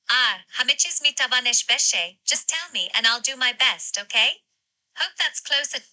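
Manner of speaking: lightly melodic Persian accent; attempted Persian accent. Shown as a demonstration. AI trying Persian on request, attempted Persian accent. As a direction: try a Tehran Persian accent, mixing Farsi and English. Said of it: "let's try a Persian accent".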